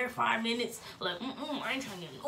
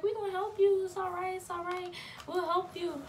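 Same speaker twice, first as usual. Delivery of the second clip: reassuring; 8 semitones higher than usual. Retold or imitated. Aunties soothing a crying niece.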